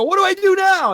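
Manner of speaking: high helpless clown voice; clown asking. Retold or imitated. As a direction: plead with the kids. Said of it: "I go".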